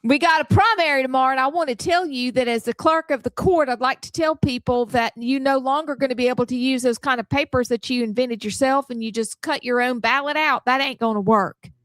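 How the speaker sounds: put-on high, lively Southern accent. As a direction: play a folksy Southern official. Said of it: "Now she's back in her s".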